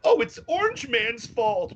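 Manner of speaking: high, slow whining crybaby voice; sarcastic high whine; mock whiny crybaby. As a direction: whine it like a spoiled kid blaming others. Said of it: "Billy cries and says".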